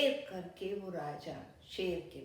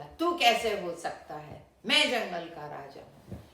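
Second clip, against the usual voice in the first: much louder defiant roar; loud lion challenge; 8 dB louder than usual. A narrator's reading. Lion shouting at his reflection in the well, loud challenge. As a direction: shout down the rival. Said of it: "शेर बोला".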